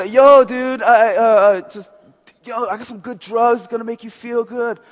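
loud, high hippie dude. Acted. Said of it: "I'll probably do a hippie voice".

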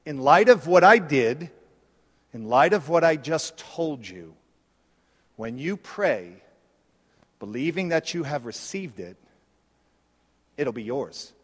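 Jesus speaking low and soft, quickened; a gentle, intimate voice for Jesus; voicing Jesus. Preacher voicing Jesus inviting the disciples, low and soft. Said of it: "He says".

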